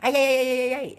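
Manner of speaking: high, loud imitation of kids yelling. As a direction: shout it like rowdy little kids. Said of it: "just yelling".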